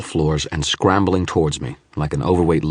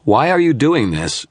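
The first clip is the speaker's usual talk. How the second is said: loud, high demand; 10 semitones higher, 6 dB louder than usual. A narrator's reading. Wizard demanding why the image attacks, loud demand. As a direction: demand an answer. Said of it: "I demanded".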